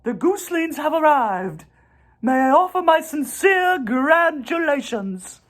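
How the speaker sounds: high, gentle spider voice; a kindly spider speaking up; spider's voice. A narrator's reading. Charlotte greets the goose family in a high voice.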